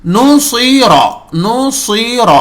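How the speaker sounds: نصیر with heavy sad; model word naseer. Shown as a demonstration. Teacher repeats the word for students. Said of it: "دیکھیے اسی لیے صاد".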